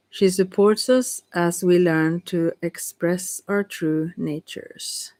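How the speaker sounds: slow, measured card reading with pauses; slow read-aloud. Real, not acted. Reader telling of the protective serpent, slow and measured. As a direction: read it out carefully, stretching the phrase ends.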